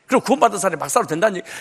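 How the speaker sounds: quick, offhand mock of believers' excuse; quoting a common excuse. Preacher mimics congregants' common excuse, quick offhand voice. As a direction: rattle it off as people always say it. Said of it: "꼭 이렇게 얘기를 해".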